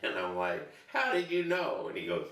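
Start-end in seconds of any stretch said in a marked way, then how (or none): 0.9-1.9 much higher, amazed; amazed question. Retold or imitated. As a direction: ask it in sheer disbelief. Rescued, amazed at rescuer.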